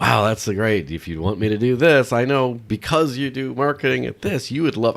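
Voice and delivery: mock chatbot, high and loud, overly eager; gushing AI assistant. Friendly chatbot buttering up a marketer, mock gushing. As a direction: ham up a sycophantic assistant selling you things. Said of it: "it starts to get like".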